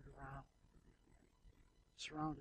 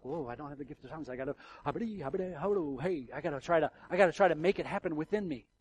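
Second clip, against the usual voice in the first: hammed-up fake speaking in tongues, rising louder; mock tongues-seeker; 7 dB louder than usual. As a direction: mimic someone forcing the gift, building up. Mocking people working up tongues.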